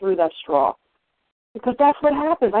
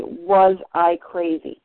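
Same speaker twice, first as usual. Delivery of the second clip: slow rhetorical question; 4 semitones lower, much slower than usual. Retold or imitated. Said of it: "I began to say".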